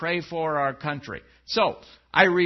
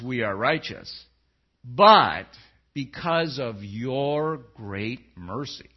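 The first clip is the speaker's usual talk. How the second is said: solemn, deliberate prayer read aloud; earnest biblical prayer; scripture prayer reading; 3 semitones lower than usual. Acted. Reads Daniel's prayer aloud.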